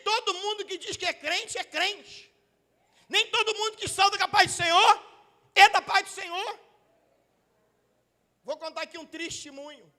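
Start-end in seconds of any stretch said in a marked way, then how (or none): 3.1-6.6 loud, high-pitched warning to the church; preaching shout. Real, not acted. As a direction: hammer the point home from the pulpit. Preacher drives a warning home.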